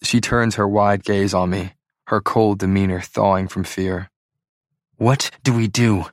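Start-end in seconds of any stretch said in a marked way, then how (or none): 5.0-6.1 harsh whisper. Acted. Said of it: "she whispers harshly".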